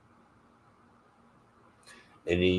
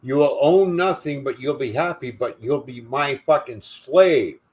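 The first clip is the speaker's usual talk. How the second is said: mocking Charles Schwab; 5 semitones higher than usual. Ranting man mimics Charles Schwab's smug promise, higher sneer. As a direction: lay on the smug menace, drag out slave. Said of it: "he talks like".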